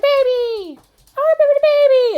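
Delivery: very high squealing dog voice, loud; voicing the excited dog. Speaking for her dog, an overexcited high squeal. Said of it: "I know you're like".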